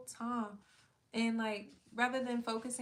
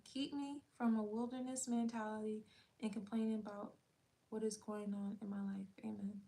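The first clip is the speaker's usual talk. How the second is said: prayer. Acted. Repeating the prayer for viewers, hushed and fading.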